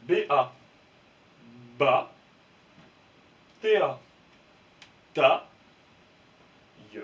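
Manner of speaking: B A, ba, T A, ta lancés fort; syllabes fortes. Shown as a demonstration. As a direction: scander pour la classe. (syllabes scandées fort)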